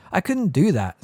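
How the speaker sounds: shocked, high protest; as if it's unthinkable; scandalized. A narrator's reading. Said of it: "looking scandalized".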